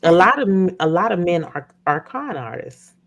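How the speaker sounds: talking around a retainer; words blurred by a retainer; wearing a retainer. Real, not acted. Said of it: "I got my retainers in".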